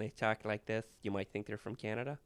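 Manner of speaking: put-on Fargo accent; North Dakota accent. Host testing British guest with Fargo, North Dakota accent. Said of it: "somebody who's from Fargo, North Dakota".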